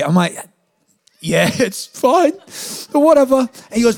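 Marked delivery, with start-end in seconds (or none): 1.2-3.4 feigned nonchalance. Retold or imitated. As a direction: act fine while clearly let down, pitched up. Feigned acceptance of cancelled lunch.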